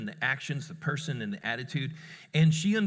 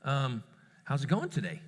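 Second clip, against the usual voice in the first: calm, casual check-in. Retold or imitated. Dad greeting child at the table, very calm. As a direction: ask it gently and evenly. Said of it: "very calm".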